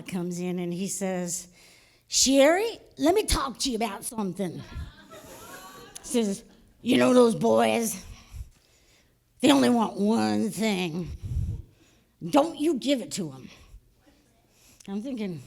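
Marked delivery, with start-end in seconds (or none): 2.1-4.6 Southern stepfather. Retold or imitated. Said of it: "my stepfather from South Carolina". 6.8-13.5 Southern stepfather. Retold or imitated. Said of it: "my stepfather from South Carolina".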